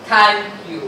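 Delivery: "Thank" loud, "you" falling away; voice going down. Shown as a demonstration. Trainer showing inflection in thanks, voice going down. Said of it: "My voice goes down".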